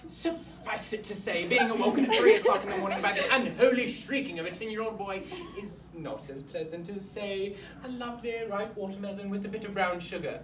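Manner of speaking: lightly put-on formal headmaster breaking bad news; stiff, wordy school principal; awkward headmaster. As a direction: play a pompous headmaster explaining himself to parents. Headmaster explains pupil's death to parents.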